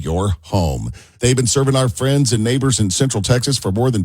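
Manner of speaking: warm upbeat sponsor read; radio ad read. Acted. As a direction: sell it like a radio host. Reads a sponsor ad.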